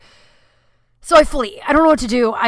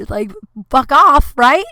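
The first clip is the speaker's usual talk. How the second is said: louder, slower, harsher fatherly snap; a hammed-up angry father; gruff dad scolding; 5 semitones higher, 9 dB louder, slower than usual. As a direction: play the fed-up dad, mildly. Dad scolding ten-year-old.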